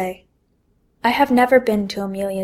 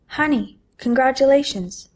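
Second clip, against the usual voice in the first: higher, bright congratulations; delighted mother; 5 semitones higher, 4 dB louder than usual. Acted. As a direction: cheer her on.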